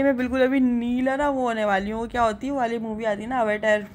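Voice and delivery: ordinary talk, nothing marked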